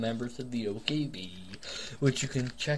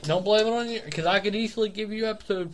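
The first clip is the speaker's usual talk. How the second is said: heated rant; 4 semitones higher, faster than usual. Real, not acted. Heated fast defence in argument.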